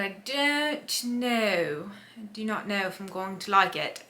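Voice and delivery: slight slip into a British accent. Real, not acted. Vlogger doubting the book she started, slipping into a British accent. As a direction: drift into a British accent, drawing out the first words. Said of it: "I just slipped into a British accent".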